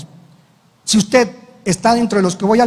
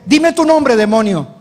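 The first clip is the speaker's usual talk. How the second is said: commanding the demon; 2 semitones higher than usual. Retold or imitated. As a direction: call the demon out by name, forcefully. Pastor commands demon in exorcism.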